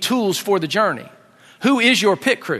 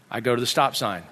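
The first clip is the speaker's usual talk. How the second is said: low, soft narrated compliance; subdued, obedient repeat; quiet echo; 6 semitones lower, 5 dB quieter than usual. Retold or imitated. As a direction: echo the order softly as you follow it. Dad obediently echoes the direction.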